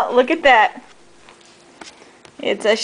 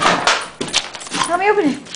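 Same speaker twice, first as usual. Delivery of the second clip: whisper; 3 semitones higher, 4 dB quieter than usual. Real, not acted. Coaxing dog, one take whispered.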